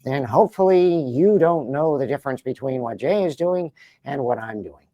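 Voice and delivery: put-on nasal nervous teen voice, lightly done; a touch of Hiccup. Shown as a demonstration. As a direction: talk like an awkward young Viking. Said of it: "Hiccup from How to Train Your Dragon".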